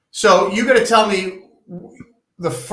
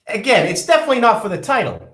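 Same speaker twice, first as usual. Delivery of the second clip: higher, smug rich boss voice; smug wealthy tycoon; 5 semitones higher than usual. Acted. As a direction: play the billionaire defending himself. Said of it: "I'm getting into character here".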